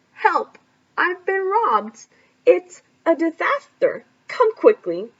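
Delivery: loud, frantic cries for help; panicked shout. Acted. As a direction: shout like you've just been robbed. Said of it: "He was still shouting".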